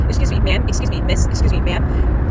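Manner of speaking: imitating customers calling out ma'am. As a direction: imitate polite customers trying to get attention. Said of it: "all day long I hear".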